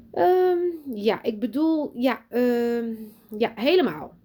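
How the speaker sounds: high, halting and flustered; flustered stammer. Acted. Teacher answering the proud father, flustered. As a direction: scramble for words, caught off guard.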